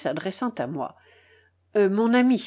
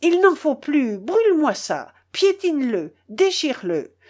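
furious orders; 5 semitones higher, 3 dB louder than usual. Acted. Master raging at the servant.

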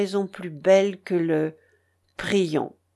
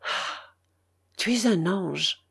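soulful; slower than usual. A narrator's reading. Brother to his sister leaving the forest, soulful. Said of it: "avec la voix de l'âme".

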